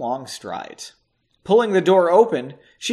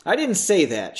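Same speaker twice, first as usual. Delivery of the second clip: plain reading voice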